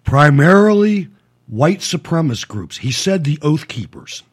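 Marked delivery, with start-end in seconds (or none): 0.0-2.8 incredulous echo. Retold or imitated. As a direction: repeat it pointedly, in disbelief. Host echoes the witness in disbelief.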